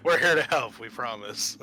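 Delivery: playful reassuring voice, mock sincere; a cheesy we-come-in-peace line; mock friendly rescuer. Players joke about greeting survivors.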